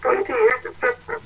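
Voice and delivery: crying. Real, not acted. Distressed message, breathy.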